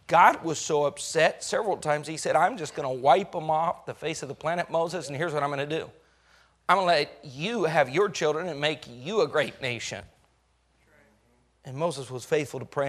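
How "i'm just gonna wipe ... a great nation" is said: much lower and softer, grave; low solemn God. Acted. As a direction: speak as a weary God. God threatening to destroy people.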